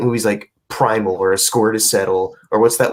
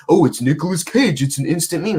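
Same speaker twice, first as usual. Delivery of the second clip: higher, mocking gush of a meme fan; 7 semitones higher than usual. Mocking fans to cohosts, a higher put-on gush. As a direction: parody the fans who love bad movies, pitched up. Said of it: "I can't get too excited with just the".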